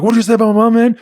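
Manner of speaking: retold angry challenge, now heated; escalating mock challenge. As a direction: push it up like he's ready to swing. Trevor confronting Salah, repeated.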